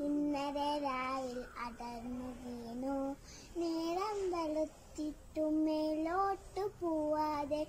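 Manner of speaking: measured recital of a short poem; poem recitation. Shown as a demonstration. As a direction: recite the verse line by line, softly. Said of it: "ഞാനിവിടെ ചൊല്ലാൻ പോകുന്നത്".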